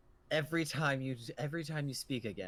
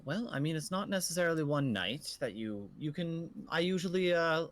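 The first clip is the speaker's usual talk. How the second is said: put-on old innkeeper. Innkeeper continues.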